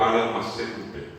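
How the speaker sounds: "armacente" drawn out, R in place of L; slow "armacente", as a speaker without L. Shown as a demonstration. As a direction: say "armacente" slowly with a tapped R for the L. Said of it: "La L no existe en guaraní".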